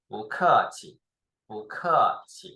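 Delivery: "bu" rising into a falling "ke" in "bu ke qi"; teacher's model "bu ke qi", rising "bu"; tone change on bu. Shown as a demonstration. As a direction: demonstrate "bu ke qi" with "bu" lifted, "ke" dropping. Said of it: "like this".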